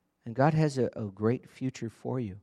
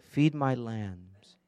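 slow solemn charge; much slower than usual. Acted. Jesus's charge, drawn out.

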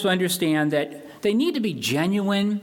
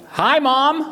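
high, loud call to the camera; a cheery on-air greeting to mom; football player's hi mom; 7 semitones higher, 5 dB louder than usual. Retold or imitated.

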